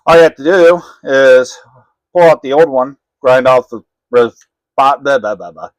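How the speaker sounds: slurred speech from a numb mouth; talking with a numb, clumsy mouth. Real, not acted. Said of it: "my mouth is all numb".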